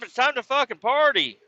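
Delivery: put-on high drunken party cheer; drunk party call. Drunk at the campsite, a high party cheer. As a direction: whoop it up.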